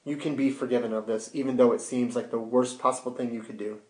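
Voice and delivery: soft, gentle reassurance; softened, understated tenderness; compassionate. Retold or imitated. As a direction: quietly offer mercy, voicing another's words. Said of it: "Jesus showing compassion to them".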